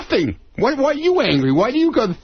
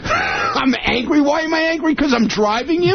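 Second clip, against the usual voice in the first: raised, incredulous and half laughing; exasperated, laughing protest; 5 semitones higher than usual. Real, not acted. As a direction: push back in disbelief, voice climbing. Argument over being called angry.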